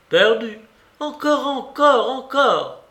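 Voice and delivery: loud, high, urgent repeats; agitated old lady's outcry; feverish demand. A narrator's reading. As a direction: insist like a gambler hooked. Babouchka demands another bet after losing.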